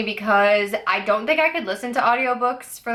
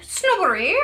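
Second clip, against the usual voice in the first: a hint of a snooty posh accent on "Snobbery", pitched up; mock posh accent; 8 semitones higher than usual. Reading the prompt, lightly mock posh accent. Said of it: "I feel like you have to say it with an accent".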